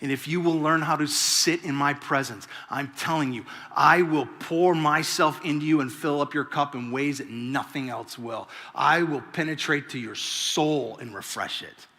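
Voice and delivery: soft, low, tender divine voice speaking to the heart; gentle voice of God. Acted. Preacher voicing God's invitation, soft and tender. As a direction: promise it quietly, like God inviting you close.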